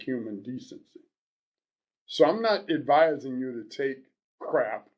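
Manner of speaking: lightly voiced advice-columnist character, measured reading; Love Doctor. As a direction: read it out with a hint of character, pausing between points. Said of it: "back in character".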